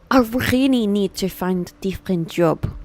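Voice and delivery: badly faked French accent; failed French accent. Streamer voicing tired Hugo wanting another job, failed French accent. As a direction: attempt a French accent and miss. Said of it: "I tried to do a French accent and that failed miserably".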